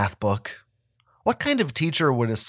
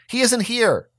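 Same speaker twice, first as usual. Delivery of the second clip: high, loud insistent call; mom yelling again; 8 semitones higher, 5 dB louder than usual. A narrator's reading. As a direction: call out firmly like an impatient mom. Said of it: "my mom yelled again".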